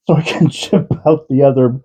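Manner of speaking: trying again through giggles; laughing. Real, not acted. Retrying a shipping update after a laughing fit, laughing. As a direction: laugh breaking into the sentence.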